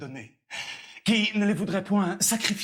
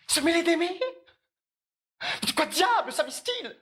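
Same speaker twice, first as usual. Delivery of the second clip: high-pitched scoffing disbelief; incredulous; 10 semitones higher than usual. Acted. Valet hears the old father is in love, incredulous. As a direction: exclaim it high, as if preposterous.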